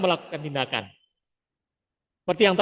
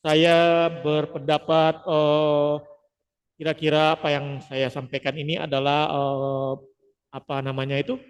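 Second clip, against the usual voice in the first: hesitant speech with fillers; full of verbal fillers. Shown as a demonstration. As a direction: stumble through with eh and um. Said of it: "contohnya ketika kita menghindari verbal filler".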